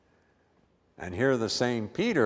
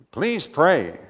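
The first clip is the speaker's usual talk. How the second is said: pleading; 7 semitones higher, 8 dB louder than usual. Retold or imitated. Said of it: "Simeon pleaded".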